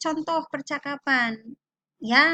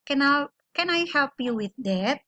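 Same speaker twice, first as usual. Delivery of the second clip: restarted "Can I", then a falling tune on "help you with that"; "with that" modelled with lowered intonation. Shown as a demonstration. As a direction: bring the tune down towards "that". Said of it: "Dengan intonasinya turun".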